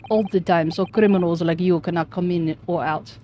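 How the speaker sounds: put-on gruff Russian accent; weak Russian accent, guard. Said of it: "Russian accent".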